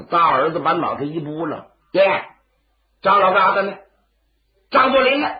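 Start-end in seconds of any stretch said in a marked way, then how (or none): 1.9-5.3 demanding shout. Acted. Son demands Zhang's whereabouts.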